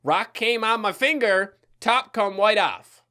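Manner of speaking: put-on slow, careful toddler lisp; toddler quote. Retelling his toddler self's words slowly, mimicking the child. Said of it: "You know what happened now".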